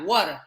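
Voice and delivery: "water" with the t softened; American-style pronunciation. Retold or imitated. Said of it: "to say things as Americans do".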